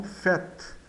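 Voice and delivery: "faites" with AI as an open E. Shown as a demonstration. Teacher explains AI before a consonant, "faites" with open E. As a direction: say "faites" like "fet", vowel open. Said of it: "Fica com o som aberto de".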